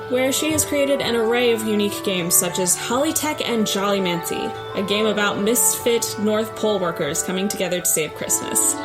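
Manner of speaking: ordinary delivery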